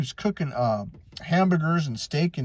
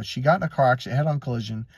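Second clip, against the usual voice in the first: plain reading voice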